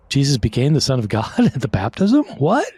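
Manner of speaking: mock-baffled, pitch jumping on "What?"; mock astonishment. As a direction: act taken aback, with a laugh. Mock shock at the reading.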